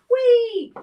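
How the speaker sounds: high, loud squeal of joy; gleeful whee. Real, not acted. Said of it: "I literally went".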